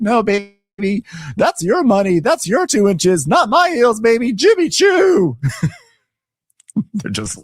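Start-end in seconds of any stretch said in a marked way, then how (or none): 0.0-5.4 slow, high, loud diva retort; drawn-out diva brag ending in a yell; sassy mock Angela. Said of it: "she's like".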